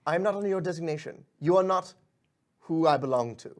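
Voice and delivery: a pixie refusing a stranger curtly; haughty pixie. Acted. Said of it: "turns to you and goes".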